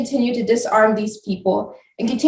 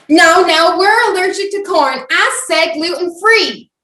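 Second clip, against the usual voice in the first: loud, high entitled customer; Karen voice; 5 semitones higher, 5 dB louder than usual. Acted. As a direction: demand it like an angry customer. Customer demanding food order.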